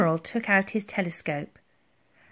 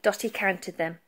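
plain reading voice

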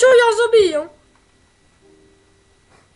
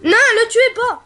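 pleading; 3 semitones higher than usual. Real, not acted. Begging teammates to spare player.

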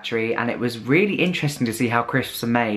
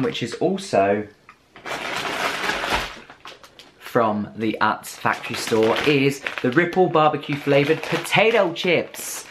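put-on terrible American accent. British vlogger reads the US crisp packet in a bad American accent. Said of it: "That was a terrible Mac-, American accent".

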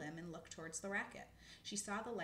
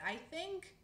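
high, slow squirrel voice; high anxious squirrel; squirrel character voice; 10 semitones higher than usual. Acted. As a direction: voice a small worried squirrel, slowly. Same squirrel continues.

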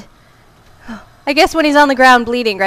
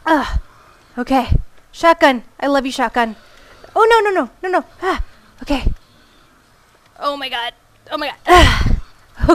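ordinary delivery

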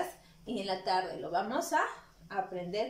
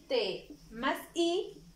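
slow sounding out; much slower than usual. Shown as a demonstration. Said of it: "teacher sounding out syllables".

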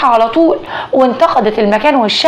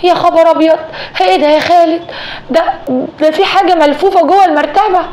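frightened scream; 5 semitones higher than usual. Acted. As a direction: shriek it out as she finds the bundle. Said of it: "حسناء صرخت وقالت".

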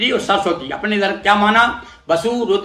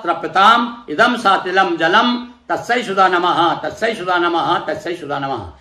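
mantra recitation. Shown as a demonstration. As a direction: intone it like a priest leading the offering. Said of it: "और फिर बोलिए".

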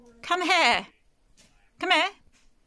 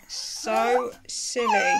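laughing; 4 semitones lower, slower than usual. Real, not acted. Mother laughing at the kids.

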